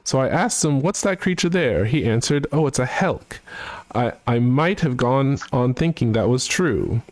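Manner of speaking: hoity-toity British gent voice, sung-spoken; mock posh British, half singing a comic song; British accent. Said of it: "try and also do his, uh, accent".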